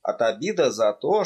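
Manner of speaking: ordinary delivery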